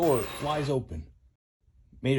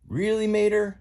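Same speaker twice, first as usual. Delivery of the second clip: Lightning McQueen; 10 semitones higher, 3 dB louder than usual. Acted. Lightning voiced by narrator.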